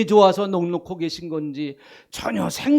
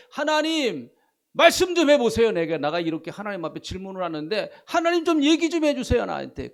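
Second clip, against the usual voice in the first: pleading for an answer; 4 semitones higher, 3 dB louder than usual. Retold or imitated. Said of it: "그렇게 지금 기다리고 있는 거예요".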